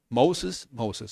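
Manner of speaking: "Moses" the English way, MOH-zes; English name form. Shown as a demonstration. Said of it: "Tampoco le dijo". ("Moses" pronunciado a la inglesa)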